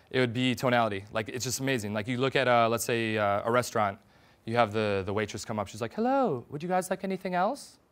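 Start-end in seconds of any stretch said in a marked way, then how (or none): 5.9-7.7 pitch slanting upward on else. Acting out a restaurant waitress's question, pitch slanting up on else. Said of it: "So that tonality where it slants up, it's kind of a seeking rapport, a qualifying tonality".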